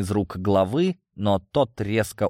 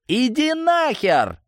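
high, loud, drawn-out angry yell; vicious snarl; 5 dB louder, slower than usual. A narrator's reading. Leader grabbing the red phone, vicious snarl. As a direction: roar it viciously. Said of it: "злобно рыкнул Фомальгаут".

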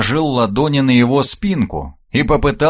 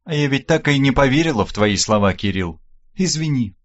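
sad. Acted. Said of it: "погрустнела Вербицкая".

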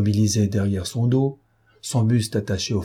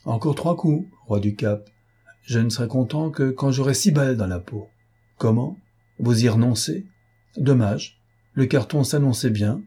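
lightly voiced mocking, unruffled intruder; bantering stranger; 3 semitones higher than usual. Stranger taunts the gunman whose revolver misfired, lightly bantering. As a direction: tease with cool, lively bravado.

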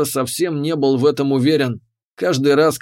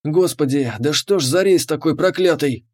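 grumbling. Acted. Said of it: "проворчал он".

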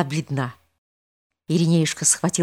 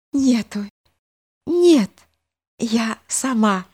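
put-on weak girl reviving; 6 semitones higher, slower than usual. A narrator's reading.

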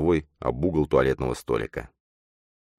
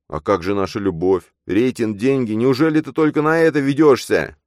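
desperate pleading; 8 semitones higher, 5 dB louder than usual. Acted. Matvey pleading.

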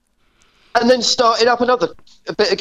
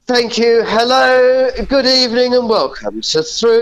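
David Frost impression; 4 semitones higher than usual. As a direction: greet the viewers as David Frost, hammed up. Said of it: "To do, do Frosty".

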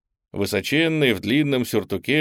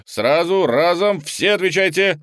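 urgent command; 6 semitones higher, 4 dB louder than usual. Acted. Colonel hisses orders.

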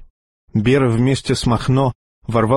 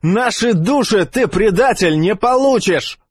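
defiant cry; 9 semitones higher than usual. Acted. Character cries out at traitor.

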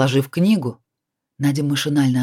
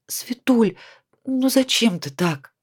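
tender whisper; 7 semitones higher, slower than usual. A narrator's reading. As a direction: hush her gently. Tender consoling.

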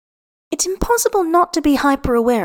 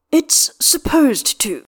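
growled; 5 semitones higher, slower than usual. A narrator's reading. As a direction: growl it out, stretching each word. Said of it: "Astarion growls".

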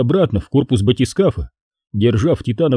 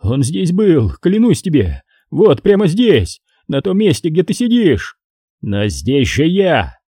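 hysterical; 5 semitones higher than usual. Acted. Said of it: "Его голос приобрел истерические нотки".

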